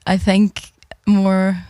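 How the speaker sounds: put-on tentative Belfast accent. Player practising for the accent game, tentative Belfast accent. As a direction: try out a Belfast accent, feeling for its rhythm. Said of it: "need to practice this one".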